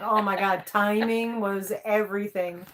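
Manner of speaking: ordinary talk, nothing marked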